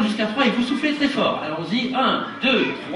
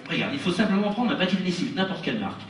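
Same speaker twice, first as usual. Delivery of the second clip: showman patter for the audience; patient magician explaining a trick; kids party magician. Acted.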